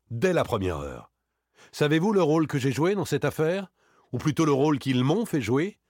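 animated account with bitter irony, often high; agitated, indignant gentleman thief. Acted. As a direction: lay out how you were fooled, riled up. (cambrioleur dupé, vif et amer)

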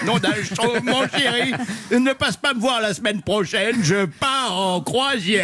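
lightly voiced cartoon grandpa; a hint of a cartoon smurf grandpa, slow at the end; grand Schtroumpf voice. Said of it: "mon grand-père a la voix du grand Schtroumpf".

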